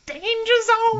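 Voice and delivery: high mock cry of danger zone; Archer catchphrase. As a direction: yell it like the cartoon spy. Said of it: "get that look in our eyes that says".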